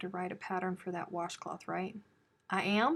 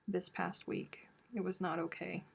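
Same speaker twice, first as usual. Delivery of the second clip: whisper; 8 dB quieter than usual. Real, not acted. Sorry about snow, whispered.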